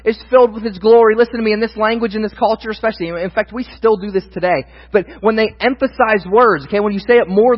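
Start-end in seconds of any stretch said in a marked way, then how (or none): 0.0-1.2 proclaiming, louder and higher; ringing proclamation; cried out. Acted. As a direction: angels calling to each other. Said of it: "they cry out".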